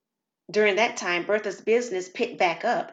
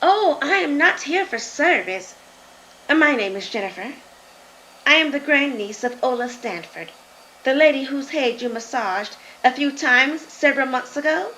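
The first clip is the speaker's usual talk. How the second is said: put-on higher, louder, eager young visitor; lightly voiced grandniece introducing herself; young woman's voice; 4 semitones higher, 4 dB louder than usual. Grandniece explains her visit to Bertha, higher and louder. Jennifer explains why she came.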